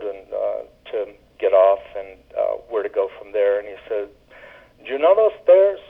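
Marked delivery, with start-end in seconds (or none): 4.8-5.8 lightly voiced New York friend giving directions; a hint of a cheerful local giving grim directions; his cadence. Friend giving directions to Queens, in a lightly mimicked cadence. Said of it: "the cadence of his voice when he was giving these directions".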